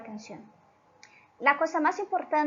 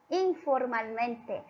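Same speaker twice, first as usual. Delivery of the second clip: slow repeat; 2 semitones lower, slower than usual. Shown as a demonstration. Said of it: "Ella nos habla".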